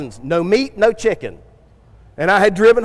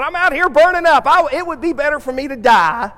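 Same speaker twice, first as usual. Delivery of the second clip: much higher, complaining; whining Jonah; 5 semitones higher than usual. Retold or imitated. Jonah whines to God that he is burning up. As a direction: moan about the heat. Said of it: "he's sitting there going".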